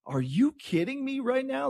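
high, thrilled and incredulous; can't believe the prize; excited disbelief. Real, not acted. Excited host reacting to tickets.

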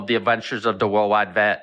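"World" said as "Wowld"; mock speech impediment on "World"; R's said as W's. Shown as a demonstration. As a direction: say "World Wide Vet" with W for R. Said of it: "I started to say W's".

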